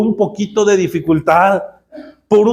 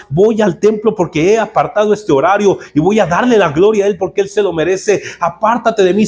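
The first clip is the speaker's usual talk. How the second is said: bold rebuke. Shown as a demonstration. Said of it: "Así deberías de ponerte con el diablo".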